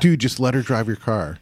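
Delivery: laughing as you retell the line; laughing quote. Retold or imitated. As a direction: say it through a laugh.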